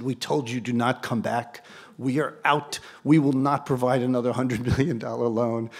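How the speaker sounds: lightly imitated Swiss accent; measured mock Swiss banker. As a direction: refuse firmly in a slight Swiss accent. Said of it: "Is that a good Swiss accent?".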